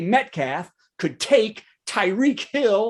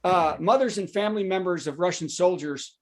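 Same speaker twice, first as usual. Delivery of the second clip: lower, grave newsreader tone; serious news voice; 3 semitones lower, 3 dB quieter than usual. Shown as a demonstration. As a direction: read it like a sober news item. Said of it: "notice how my voice changes inflection".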